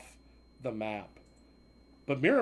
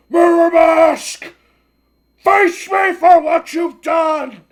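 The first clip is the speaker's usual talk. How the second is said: slow, booming villain roar, much higher and louder; villain's bellowed challenge; 13 semitones higher, 14 dB louder, much slower than usual. Acted. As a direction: bellow it out slowly, as a furious old villain. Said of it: "I did not understand your growling".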